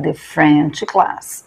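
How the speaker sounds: very slow but the French class with a short thuh; contrast: short the before French; thuh before consonant. Shown as a demonstration. Teacher closing the contrast for students.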